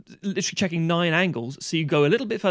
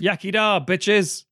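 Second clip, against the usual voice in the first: mock Welsh cheer; 5 semitones higher, 4 dB louder, much slower than usual. Mock Welsh toast thrown in.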